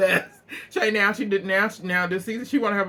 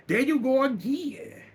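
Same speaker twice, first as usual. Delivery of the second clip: mocking Candy; 6 semitones higher than usual. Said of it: "She like".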